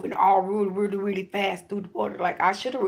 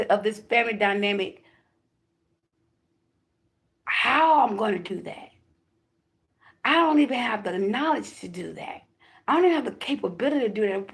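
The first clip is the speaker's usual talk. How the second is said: panicked questions; 3 semitones higher than usual. Retold or imitated. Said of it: "My heart was racing".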